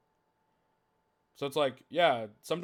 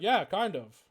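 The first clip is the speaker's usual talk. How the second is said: blunt mock reply; 6 semitones higher, 6 dB louder, slower than usual.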